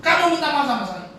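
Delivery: high, mock-angry order to apologize; high angry demand. Uncle scolding the young man, high mock-angry voice. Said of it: "dengan nada tinggi yang marah begitu".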